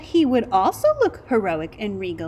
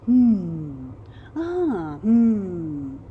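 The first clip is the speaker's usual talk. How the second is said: thoughtful hmm; 4 dB louder, much slower than usual. A narrator's reading. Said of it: "He thought seriously".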